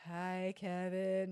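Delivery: drawn-out, very slow "Hi, Kevin"; lightly voiced cartoon greeting, very slow; slow SpongeBob quote. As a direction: stretch the greeting out lazily like a cartoon. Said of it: "You know, like SpongeBob".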